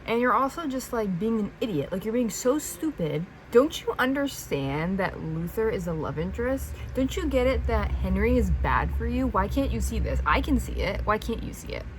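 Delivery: exasperated scolding; annoyed. Real, not acted. Reader scolds the heroine for being an idiot, exasperated. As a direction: plead and scold in real annoyance. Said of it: "how annoyed I am at you".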